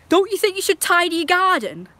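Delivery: high, sing-song mock nag; mocking the busybodies. Busybodies nagging mum, in a high mocking voice. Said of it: "They was like".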